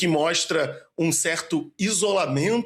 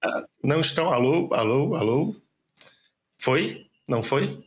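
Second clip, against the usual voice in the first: over a landline phone. Real, not acted. Guest on call, audio failing.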